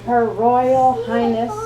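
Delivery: formal announcer calling out; herald announcement. Acted. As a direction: announce her to the ballroom.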